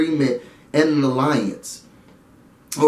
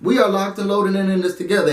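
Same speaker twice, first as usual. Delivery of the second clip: a bit higher, insistent mock plea; Bailey's point; 4 semitones higher than usual. Bailey telling Swaggy they stay together, insistent. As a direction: voice Bailey refusing to let go. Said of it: "I also saw Bae's point".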